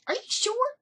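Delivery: high, doubting are you sure; a high, suspicious mock question; doubtful. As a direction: press her, unconvinced. Suspicious repeat.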